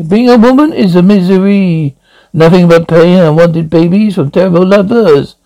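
lightly acted French accent. Statue tells Jesse about womanhood's misery, French accent. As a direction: lament it with a touch of French accent. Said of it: "speaking French accent".

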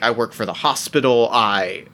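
halting, low reluctant answer; stumbling answer. Acted. Paranoid doctor avoiding the question, stumbling answer. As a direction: stumble and break off, voice sinking. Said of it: "stumble out an answer".

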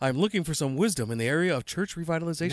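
self-important formal read-out; pompous. Acted. Cohost reading out a listener's email, pompous. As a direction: read it like a pompous letter-writer. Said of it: "Now he sounds pompous".

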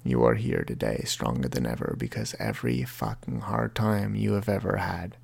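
reading from his book. Shown as a demonstration. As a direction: read the chapter aloud, intimate and steady. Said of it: "chapter in my book that I would like to read to you".

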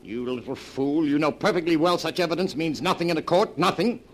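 loud, high angry outburst; furious berating. Acted. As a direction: lash out at her, building to the last word. Berating wife on the cliff.

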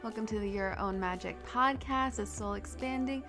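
blocked nose from a cold; talking through a stuffy nose. Real, not acted. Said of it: "my stuffy voice".

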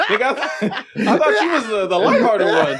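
high, laughing disbelief. Real, not acted. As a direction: laugh out your shock at your friend. Laughing shock at friend.

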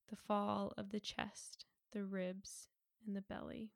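calm, measured meditation delivery; unhurried body-scan guidance with long pauses between phrases; guided meditation. Acted. Podcast host guiding listeners toward sleep, calm guided meditation.

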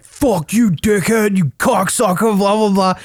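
high-pitched imitation of feeble trash talk; mock chirping. Mocking the stranger who chirped him, high and scornful. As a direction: imitate a guy hurling weak insults. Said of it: "He just starts chirping me".

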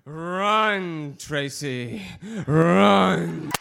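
loud shouted run; urgent shout. Acted. Poet warning Tracy to flee, loud. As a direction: yell the warning.

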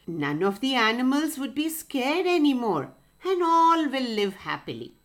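lightly voiced bright rooster, feigning delight; cheerful rooster voice. Rooster pretending to welcome the fox's news, lightly cheerful. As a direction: play along with the trick cheerfully.

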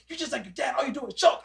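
imitated mom telling off a kid; mildly hammed-up motherly reprimand; scolding mother. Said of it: "next thing you know, his mom".

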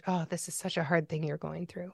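softly spoken compassion; quiet, caring tone; tender sympathy. Shown as a demonstration. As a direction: gently acknowledge a friend's pain, voice dropped soft. Modeling sympathy for someone grieving.

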